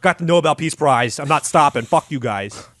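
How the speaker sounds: gleeful mad surgeon, pleased with himself; smug Walter. Retold or imitated. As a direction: brag it like an unstoppable quack. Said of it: "So Walter's like".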